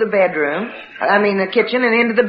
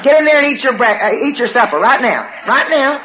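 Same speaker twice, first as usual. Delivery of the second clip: higher, urgent retold command; cross mother's order; 4 semitones higher than usual. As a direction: order the kids to supper. Angry mother ordering children to eat.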